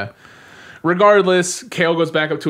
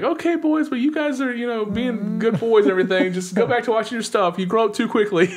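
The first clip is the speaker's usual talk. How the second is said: high-pitched imitation mom, much higher than usual; 8 semitones higher than usual. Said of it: "the mom voice".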